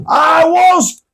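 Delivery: high, slow, half-laughing retort; stretched, high retort through laughter; laughing mock retort. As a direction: mimic the retort while cracking up. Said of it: "like this".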